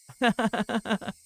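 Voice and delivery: a sudden high creepy giggle; eerie high giggle. Acted. Reina laughing at Keiichi as he flees, eerie giggle. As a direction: giggle like a girl who has cornered her prey.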